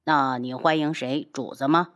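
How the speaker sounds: understated dismissive retort; disdainful. Acted. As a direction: needle them with cool contempt. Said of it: "不屑地道".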